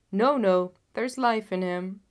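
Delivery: loud urgent shout from the crowd. A narrator's reading. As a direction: shout it over the others. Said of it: "shouted another".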